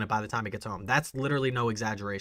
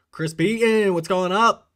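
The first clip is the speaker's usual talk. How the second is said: calls out a cheery hello, higher and louder; loud greeting; 7 semitones higher, 9 dB louder, slower than usual. Real, not acted. Streamer hails a viewer arriving in chat, loud and cheery. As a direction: shout a welcome to a new face in chat.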